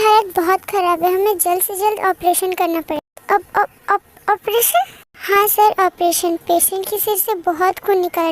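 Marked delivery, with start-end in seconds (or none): 3.3-4.9 stammering, halting question; shocked stammer. Acted. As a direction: stumble over the word in shock, slowly. Shocked on hearing of operation.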